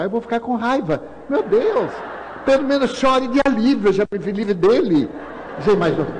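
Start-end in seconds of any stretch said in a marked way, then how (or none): 0.0-5.1 mock dying man. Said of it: "que dizem às pessoas".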